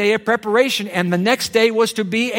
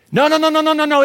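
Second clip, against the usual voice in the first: emphatic no; 9 semitones higher, much faster than usual. Real, not acted. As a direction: cut the lie off hard, rising in pitch.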